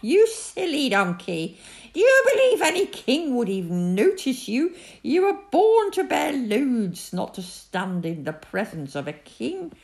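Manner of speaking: high, loud, mocking hyena; spiteful hyena. A narrator's reading. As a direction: jeer loudly at the donkey with spite, settling at the end. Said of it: "she laughed spitefully".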